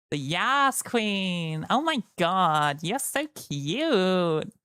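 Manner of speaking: slow, sing-song gushing cat; yassified cat voice. Retold or imitated. Imitating Soph's Deltarune cat voice, slow and gushing. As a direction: coo it like a sassy cat. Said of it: "the voice that Soph uses for the cat".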